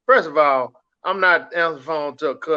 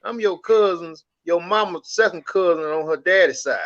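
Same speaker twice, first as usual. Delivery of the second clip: imitating long-lost cousin; 4 semitones higher than usual. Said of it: "they be like".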